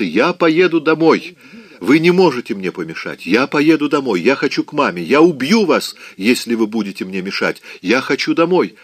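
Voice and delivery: near-sobbing tantrum, dragging each word; hysterical shouting. Acted. Scarlett breaks down in front of Rhett, hysterical shouting. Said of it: "истерическими рыданиями".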